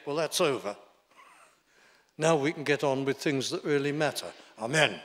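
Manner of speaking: a brisk, dismissive schoolmaster, rushing through; mock the bored teacher who wants the prayer over; old schoolmaster. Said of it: "sound just like my old schoolmasters".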